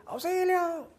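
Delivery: faraway echo of a scream. Retold or imitated. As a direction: let it ring back faintly from the canyon. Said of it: "escucha un eco".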